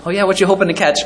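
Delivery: friendly, mildly curious question; curious townsperson. Acted. Townsperson voiced in imagined scene.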